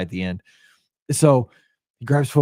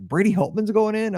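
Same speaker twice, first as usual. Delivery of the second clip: pitched way up in disbelief; stunned question; 10 semitones higher than usual. Retold or imitated. Fan at the game hearing his wife's news, high stunned question. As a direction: ask it like you can't believe your ears. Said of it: "I'm like".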